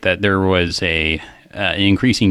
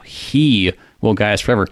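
he stressed at the start of "He will guide us forever"; emphatic he; 2 semitones higher than usual. Shown as a demonstration. Host showing the Hebrew emphasis to co-host, stressed he. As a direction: punch the word he. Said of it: "that is an emphatic "he".

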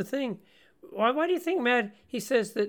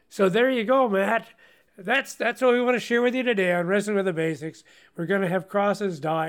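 mock sign-off; 3 semitones higher, 5 dB louder than usual. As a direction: jokingly close the show in a big voice. Jokingly pretends to end the show.

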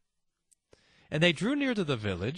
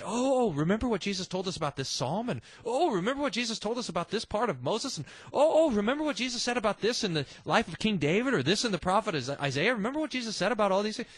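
excited; 3 semitones higher, faster than usual. Pretend. Imagined Cleopas teaching Bible class.

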